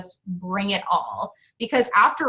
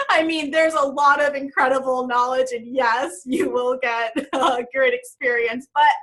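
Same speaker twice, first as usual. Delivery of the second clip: teary; 4 semitones higher than usual. Real, not acted. Moved, crying after comment.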